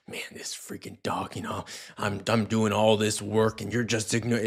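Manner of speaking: mild grumbling under the breath; frustrated muttering. Retold or imitated. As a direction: grumble it half-aloud to yourself. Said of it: "your internal dialogue is like".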